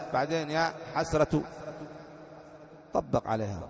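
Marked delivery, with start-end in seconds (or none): 0.5-1.4 "حسرة" said as ḥasratu; final damma. Shown as a demonstration. Teacher gives students the last form, -tu ending on "حسرة". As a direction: end "حسرة" on a short u. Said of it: "تقدر نطبق عليها اللغات".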